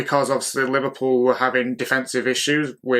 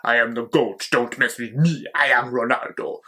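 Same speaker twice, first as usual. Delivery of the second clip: mock Ronaldo accent; 2 semitones lower than usual. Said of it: "I don't know what accent that was".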